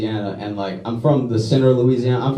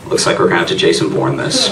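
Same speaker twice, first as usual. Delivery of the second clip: action hero; 9 semitones lower than usual. Retold or imitated. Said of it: "in my head I was like".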